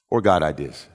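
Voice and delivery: low emphatic God ideas; punchline. Acted. Preacher to congregation, emphatic low contrast.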